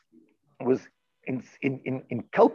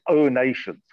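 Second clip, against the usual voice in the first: mock grand; 5 dB louder, slower than usual. Shown as a demonstration. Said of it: "I say".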